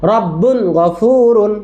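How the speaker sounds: কওমিন হাদিন drawn out very slowly, with the n kept clear; slow drill reading. Shown as a demonstration. Teacher modelling for the children, slow and clear. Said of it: "teacher drilling Quran reading slowly".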